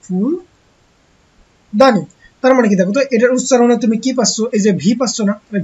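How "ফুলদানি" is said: ফুলদানি stretched very slowly; ফুলদানি pulled out syllable by syllable; drawn-out word. Shown as a demonstration. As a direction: say ফুলদানি slowly, every sound long, for children to copy. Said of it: "মানে হচ্ছে কত".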